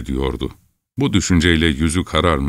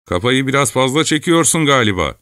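higher mocking young voice; taunting lad; 9 semitones higher than usual. A narrator's reading. Lad mocking Chelkash's drinking, higher taunt. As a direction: needle him with a jab.

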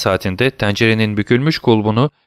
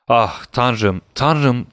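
mild anguished cry; 2 semitones higher, much slower than usual. Acted. Despairing prisoner crying to God, understated cry. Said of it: "diye haykırdı".

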